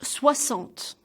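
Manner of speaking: "Soixante" as swa-SANT; x like double s. Shown as a demonstration. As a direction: hiss the x in "Soixante" as an s. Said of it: "it sounds like a double S".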